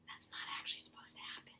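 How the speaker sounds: quick whispered aside; whispering. Real, not acted. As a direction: drop to a fast whisper.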